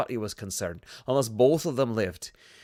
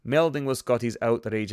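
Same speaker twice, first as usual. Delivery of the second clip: put-on Russian accent. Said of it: "the worst Russian accent".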